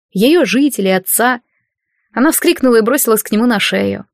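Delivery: plain reading voice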